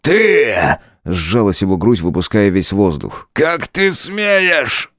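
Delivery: громко, высоко, медленно; выкрикнуть в бешенстве; ярость. A narrator's reading. Король в ярости. (король кричит на демоницу)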